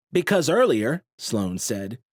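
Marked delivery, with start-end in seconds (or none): 0.1-1.0 nasal voice. A narrator's reading. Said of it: "his nasally voice".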